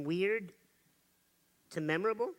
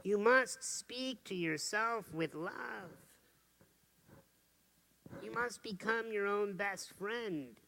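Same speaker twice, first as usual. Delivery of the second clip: slow, softer and earnest; tender sincere advice; 4 dB quieter, slower than usual. Real, not acted. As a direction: speak gently from the heart.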